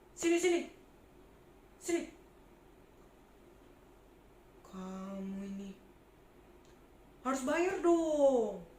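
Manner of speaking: loud demanding tax collector; greedy tax collector shouting at a poor trader; bossy bully. Acted. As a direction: bark orders at the trader, grabbing her money.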